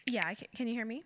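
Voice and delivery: choppy, dropping audio; bad connection. Real, not acted. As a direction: voice breaking up. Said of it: "you're breaking up a little bit".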